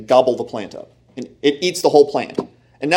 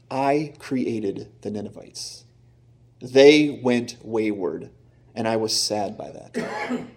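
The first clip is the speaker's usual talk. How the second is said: slow, soft and sorrowful, as God grieving his lost people; sad, tender God; 3 semitones lower, 4 dB quieter, slower than usual. Retold or imitated. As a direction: speak slowly and softly, full of longing. God speaking sadly to Jonah.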